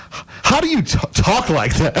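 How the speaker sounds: high-pitched, halting question; young student. Retold or imitated. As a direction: imitate a hesitant student, voice climbing high. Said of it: "there was this girl".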